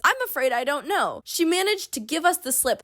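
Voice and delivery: a lightly put-on grave doctor; a hint of TV doctor; mock doctor quote. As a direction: read it like a dramatic hospital doctor. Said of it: "That is not how a doctor would talk".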